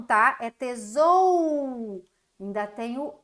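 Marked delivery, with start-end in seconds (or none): 0.4-2.1 tesou drawn out slowly, without the final a; slowed syllable demo. Shown as a demonstration. Teacher showing the sound of a syllable. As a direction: stretch tesou to show the missing part. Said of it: "não é tesoura não".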